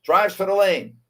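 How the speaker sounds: brisk courtside call, pitched a little up; live play-by-play. Acted. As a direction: call the game live like a TV announcer.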